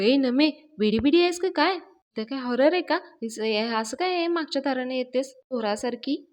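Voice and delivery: startled scolding. Retold or imitated. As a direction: snap at her for creeping up from behind. Dhanya startled, scolds Nami.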